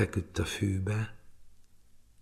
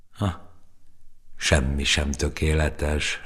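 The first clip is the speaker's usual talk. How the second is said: sighing; 3 semitones lower, slower than usual. Acted. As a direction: sigh it out wistfully, slowly. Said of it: "sóhajtott a róka".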